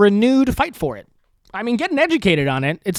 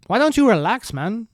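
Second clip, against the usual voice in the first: higher, unsure mock Spanish accent; attempted Spanish accent; 4 semitones higher than usual. Host retrying a mocking Spaniard, attempted Spanish accent. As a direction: have another rough go at Spanish accent. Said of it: "can I do a Spanish accent?".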